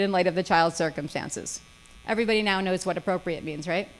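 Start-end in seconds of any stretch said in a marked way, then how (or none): 2.1-3.9 fast, dry sarcastic aside. Real, not acted. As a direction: say it with a knowing, sarcastic edge. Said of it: "I'm being sarcastic".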